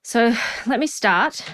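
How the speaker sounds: out of breath from the stairs. Real, not acted. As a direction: talk between puffing breaths. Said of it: "while I'm huffing and puffing".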